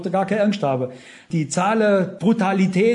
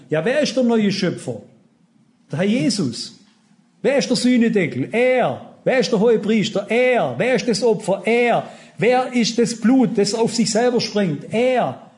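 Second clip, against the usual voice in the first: punchy rhetorical questions with one-word answers; emphatic preaching. Real, not acted. Preacher quizzing the congregation about the sacrifice, emphatic. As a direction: drive each answer home like a preacher.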